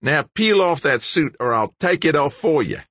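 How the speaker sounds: high, menacing order; snarled threat. A narrator's reading. Big George ordering the stranger out of his suit, snarling. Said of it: "George snarled".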